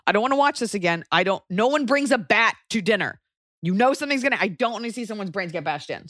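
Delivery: high, upset protest; whiny, high-pitched refusal; squeamish protest. Retold or imitated. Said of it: "And I was like".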